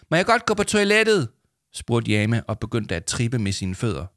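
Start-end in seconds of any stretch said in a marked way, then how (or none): 0.1-1.3 high-pitched pleading request; squeaky urgent plea; urgent child. A narrator's reading. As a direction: ask desperately, needing to go. Child urgently asks for toilet.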